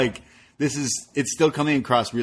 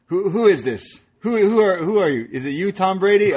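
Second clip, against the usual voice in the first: high-pitched mock questioning; hammed-up puzzled phone voice; cartoon phone bit; 9 semitones higher than usual. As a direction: act out a baffled caller, pitched up. Retold cartoon prank call bit.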